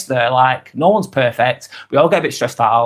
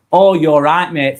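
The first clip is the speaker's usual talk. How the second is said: put-on matey friendliness, a little louder; fake niceness; 4 dB louder than usual. Shown as a demonstration. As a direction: greet them with insincere cheer. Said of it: "the fakeness".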